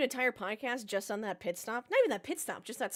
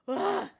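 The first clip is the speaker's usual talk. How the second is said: frustrated yell; 2 semitones higher, 5 dB louder than usual. Real, not acted. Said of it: "try to contain myself".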